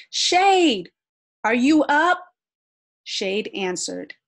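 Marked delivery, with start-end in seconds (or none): 0.1-2.3 high, loud call; shouting. A narrator's reading. Little Sun calls Shade at sunrise, shouting. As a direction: call out loudly to someone far off. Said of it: "Little Sun shouted immediately".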